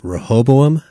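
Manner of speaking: Rehoboam with the weight on ho; Rehoboam, second syllable stressed and lifted. Shown as a demonstration. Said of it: "puts the emphasis on the second syllable of".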